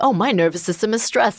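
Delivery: lightly lifted, mocking therapy-speak; a touch of sarcastic parody of calm self-awareness; mock clinical self-diagnosis. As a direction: say it like nobody would actually talk this way. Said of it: "But I, I'm not gonna be like".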